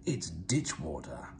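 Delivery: hushed and slow, but meant to be heard; stage-whisper it so Gordon hears; loud whisper. A narrator's reading. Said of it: "whispered Thomas loudly".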